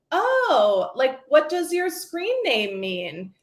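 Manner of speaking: high drawn-out "Oh", then slow, careful question; lightly voiced teacher probing casually; teacher hat. Mom questioning her daughter as a teacher would, measured. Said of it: "put on my teacher hat".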